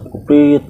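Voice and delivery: quick whistle prit; whistle imitation. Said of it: "Gua bunyiin kan".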